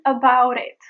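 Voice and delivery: "about it" joined with a light tap; linked flap T. Shown as a demonstration. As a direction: flick "about" into "it". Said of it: "And then about it".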